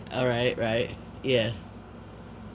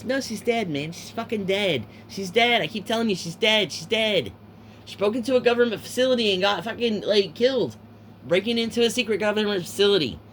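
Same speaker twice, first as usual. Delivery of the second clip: insistent; 5 semitones higher than usual. Retold or imitated. Insisting that Sherry is dead.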